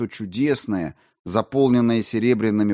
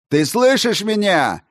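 much higher and louder, almost yelling; near shout; 11 semitones higher, 7 dB louder than usual. A narrator's reading. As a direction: nearly shout to be heard. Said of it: "почти крикнул".

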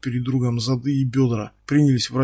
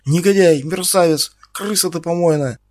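higher, louder screaming of names; furious insults; 4 semitones higher, 5 dB louder than usual. Acted. Ксюша продолжает осыпать Стаса бранью. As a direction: keep hurling abuse. Ksyusha continues hurling insults.

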